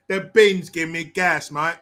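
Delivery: slow, hammed-up British "mate" talk; mock British accent. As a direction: do a bad British accent, drawn out. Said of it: "You guys got a bunch of accents".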